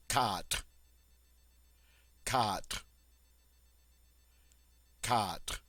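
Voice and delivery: quatre said the French way, one syllable, R lightly rolled from the throat. Shown as a demonstration. Teacher modeling quatre for students, clear French pronunciation. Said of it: "on dit".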